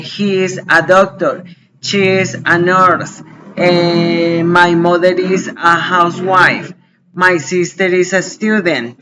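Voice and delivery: slow, evenly spaced English examples; example sentences. Shown as a demonstration. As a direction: model each sentence slowly. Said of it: "o voy a decirle a alguien".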